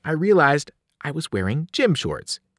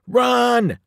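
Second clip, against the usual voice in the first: high, raised shout; urgent command; 10 semitones higher, 4 dB louder than usual. A narrator's reading. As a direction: order the team to flee. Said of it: "I told my teammates".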